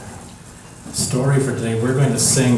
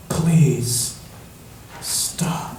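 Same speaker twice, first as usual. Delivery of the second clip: very soft, fading into a whisper; soft plea; 3 semitones higher, 4 dB quieter than usual. Acted. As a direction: plead gently, trailing to a whisper. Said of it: "as soft as butterfly sneezes".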